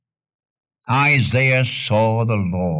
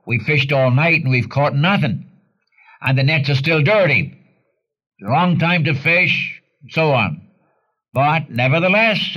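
Peter's protest; 3 semitones higher than usual. Acted. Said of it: "Peter said to the Lord".

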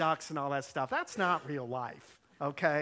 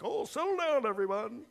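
higher-pitched mock exasperation; put-on testy hushing; short-tempered umpire; 5 semitones higher than usual. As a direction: imitate an umpire losing patience. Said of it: "Bob had a short trigger".

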